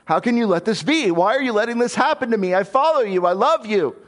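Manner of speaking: high, pleading complaint to God; Job crying out. Acted. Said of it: "he cries out to God".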